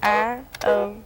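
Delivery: letters spelled slowly one by one; sounding out words. Shown as a demonstration. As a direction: spell each letter out, spaced apart. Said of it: "try spelling it".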